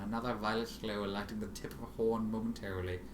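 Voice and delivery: ordinary delivery, nothing marked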